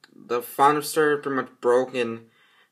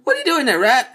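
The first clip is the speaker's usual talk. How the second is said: much higher, louder surprised question; 10 semitones higher, 7 dB louder, faster than usual. Acted. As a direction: scold a little rat. Addresses the rat.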